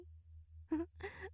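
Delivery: high airy teasing giggle; a light mocking laugh. Teasing laugh mid-scene.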